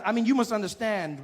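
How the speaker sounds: ordinary talk, nothing marked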